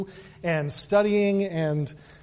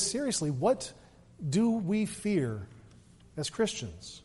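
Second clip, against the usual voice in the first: hushed question; 7 dB quieter, slower than usual. Acted. Sermon question, dropping voice.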